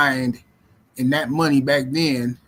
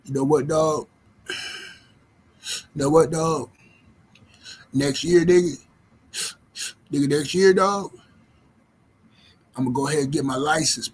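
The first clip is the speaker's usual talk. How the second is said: a hint of a lazy stoner making big plans; mock stoner. Imitating a man who has smoked for twenty years, mild stoner voice. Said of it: "This how they sound".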